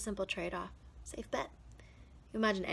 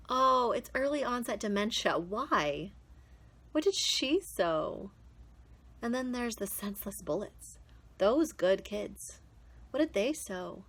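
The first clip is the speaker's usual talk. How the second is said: louder, bursting out in disbelief; anguished protest; 2 semitones higher, 6 dB louder than usual. Acted. Performer questioning why good people suffer, anguished protest. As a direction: demand an answer for senseless loss.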